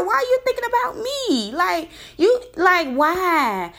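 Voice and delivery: high, exasperated demand; retold outraged questioning; incredulous anger. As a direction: press him for an answer, baffled and mad. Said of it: "that made me more angry because I'm like".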